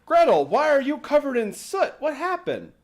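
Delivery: a startled dad asking; worried dad. Retold or imitated. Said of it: "he's like".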